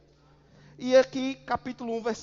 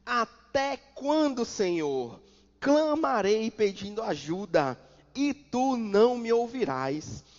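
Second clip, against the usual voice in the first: clamor do profeta; 4 dB louder, slower than usual. Acted. Prophet's cry read aloud.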